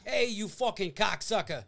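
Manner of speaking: gruff affectionate insult, lightly voiced; Diaz-style cocksucker love; Joey Diaz impression. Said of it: "if you listen to Joey Diaz".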